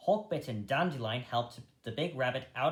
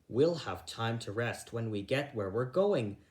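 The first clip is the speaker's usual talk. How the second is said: firmly. Acted. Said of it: "said Hazel firmly".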